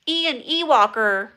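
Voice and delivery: high squeaky creature voice; Ewok voice. Pretend. Playing an Ewok voice.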